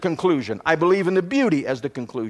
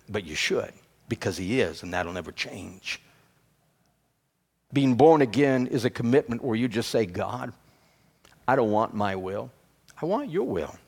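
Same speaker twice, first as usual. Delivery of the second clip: much softer and lower, near a hush; soft intimate preaching; 7 semitones lower, 7 dB quieter than usual. Acted. Pastor leading the congregation to a quiet commitment, hushed. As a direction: draw them in quietly, tender appeal.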